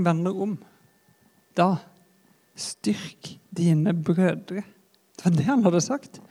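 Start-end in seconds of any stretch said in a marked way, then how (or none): 0.1-4.6 whispered echo. Acted. Jesus's words echo in memory.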